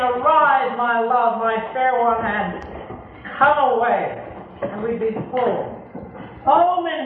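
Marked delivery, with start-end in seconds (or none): 0.0-4.3 tender call. Acted. The Lord calling his bride, tender and rising. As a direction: call out tenderly, then let it settle. Preacher voices the Lord's call.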